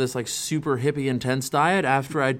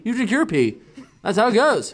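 laughing through it; 8 semitones higher than usual. Real, not acted. Quote dissolves into laughter.

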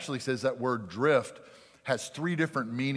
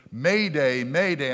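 louder acted Mayday call; retold distress call; 7 dB louder, slower than usual. Ship radioing the young officer for help, urgent mock distress call. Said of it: "he gets a distress call".

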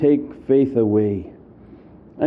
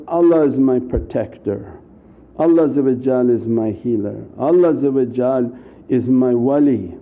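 calm affirmation; 5 semitones lower than usual. Retold or imitated. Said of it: "continuously reminding themselves".

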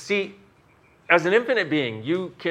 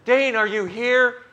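mock listener asking; 10 semitones higher, 5 dB louder, slower than usual. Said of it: "And you're gonna go".

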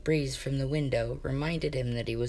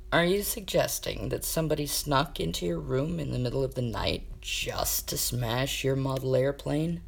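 reasonably. Acted. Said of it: "Kane said reasonably".

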